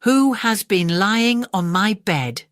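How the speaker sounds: father bear growl. Acted. Father bear seeing tumbled beds, slow mock growl. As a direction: draw it out like an indignant big bear. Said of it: "Father Bear growled".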